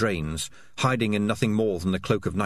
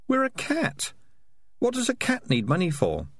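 conscience voice; 12 semitones higher than usual. A narrator's reading. Morris's conscience talking inside head.

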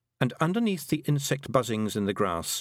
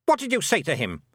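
sharp, higher-pitched demand; snapped; 7 semitones higher, 3 dB louder than usual. A narrator's reading. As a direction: snap the question as a suspicious queen. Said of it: "snapped the Queen".

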